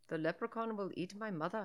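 light fake brogue, Irish-Scottish; Irish-Scottish accent attempt. Film character pleading with victims, light Irish-Scottish accent. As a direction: slip into mock Scottish-Irish. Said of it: "with the R rolling".

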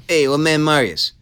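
a hint of a put-on character pitching a deal; Sulpicius. Shrewd politician offering old Marius a deal, lightly voiced character. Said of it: "He probably talked like that".

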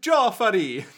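loud mock-Italian accent. Podcaster joking about Game of Thrones, Italian accent. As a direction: call it out in a joke Italian accent. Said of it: "idea of an Italian Game of Thrones".

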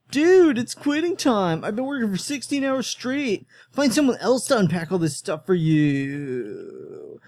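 slow, whiny slacker drawl; lightly voiced bored young worker; lazy slacker.

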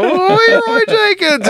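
high Leroy Jenkins-style charge yell; mock battle cry. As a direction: re-enact a reckless gamer's war cry. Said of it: "doing my, my traditional".

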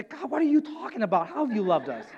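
sarcastic back-talk to God; mock-rude retort, as if with hands on hips. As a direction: say it with a stink face. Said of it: "rude, sarcastic response".

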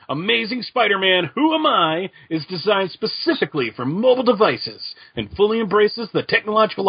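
lightly voiced forties newsreel narrator; hint of an old newsreel announcer. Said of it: "I say, I say newsreel".

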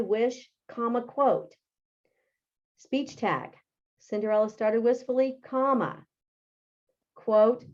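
dictating punctuation aloud. Shown as a demonstration. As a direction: call out each mark clearly. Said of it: "we're going to work on this punctuation".

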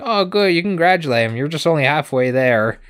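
high mock-cheerful sarcasm; mock-bright sarcastic praise. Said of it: "It's like".

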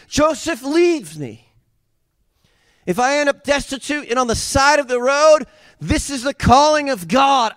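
high, ringing preacher's declaration of resolve; impassioned declaration. Acted. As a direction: build to a loud, defiant vow. Voicing Mary's resolve, building fervour.

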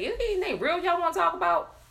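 high-pitched quick sass; sassy, high and fast. Retold or imitated. Sassy retort to teachers.

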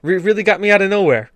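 hammed-up sporting politeness; over-polite gamer. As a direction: praise an opponent far too nicely. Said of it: "just really nice to each other".

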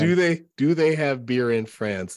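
mock-grand title read; announcing a title. Shown as a demonstration. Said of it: "That's another good pod title".

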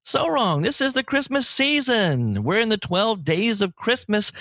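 indignant outburst at the radio; mock outrage over Christmas music ending early; exasperated rant. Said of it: "I was like".

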